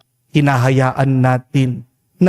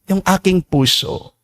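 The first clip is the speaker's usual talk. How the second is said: higher, faster, pleading rush of grief; grieving father pleading; 6 semitones higher, faster than usual. Retold or imitated. Grieving father pleads with the priest, higher and rushed. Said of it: "Sabi niya".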